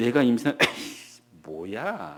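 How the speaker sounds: mocking, derisive laugh. Demonstrating the reaction to being told one will get pregnant: scoffing laugh. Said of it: "이 웃음이에요. 이 웃음. 그러니까 비웃음이에요".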